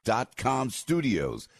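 polished sponsor pitch; radio ad read. Real, not acted. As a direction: sell it with emphatic key words and pauses. Host reads a sponsor ad.

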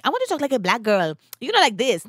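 light mimicry of a put-on Black American accent; imitated Black American accent. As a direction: mimic a visitor copying Black American speech. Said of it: "Black girls that talk like that".

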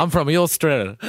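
hammed-up Australian accent drifting into German; put-on Australian accent, slightly German. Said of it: "Traditional Australian accent you're putting on there".

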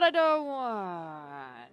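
slow, breathless whisper. Acted. Begging friend to stay back, slow whisper.

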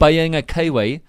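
"Being a Kiwi" in flattened Kiwi vowels; New Zealand accent. Shown as a demonstration. Host demonstrating "Being a Kiwi" to team, New Zealand accent. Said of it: "you hear it's flatter".

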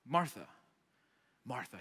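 soft, gentle appeal by name; calming. Retold or imitated. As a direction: say her name to settle her, pausing between. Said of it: "He's just trying to, to calm her down".

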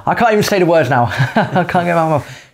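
laughing at own slip. Real, not acted. Host tripping over words, laughing at himself. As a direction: laugh through your tongue-tied stumble.

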